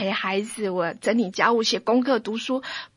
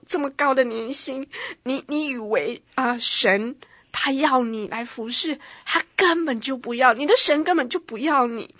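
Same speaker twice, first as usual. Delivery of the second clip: devil accusing; 3 dB louder than usual. Retold or imitated. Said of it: "魔鬼的控告".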